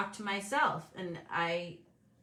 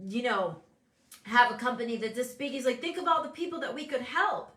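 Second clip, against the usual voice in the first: son urging, higher and louder; earnest son imitation; 5 semitones higher, 4 dB louder than usual. Son urging mom to build a bigger company, earnest. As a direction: passionate why-not pitch. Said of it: "and he's like".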